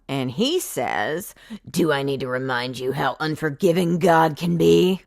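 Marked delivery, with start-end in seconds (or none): 1.7-5.0 menacing hero. Acted.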